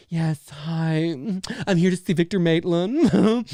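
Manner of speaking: lightly put-on flamboyant greeting; breezy, showy imitation of Axel's act; flamboyant character imitation. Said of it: "he's like".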